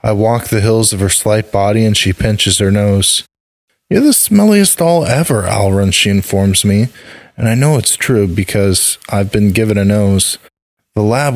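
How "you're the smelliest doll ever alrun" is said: put-on high-pitched girl teasing her doll; little girl's voice. A narrator's reading. Narrator voices the girl Maria.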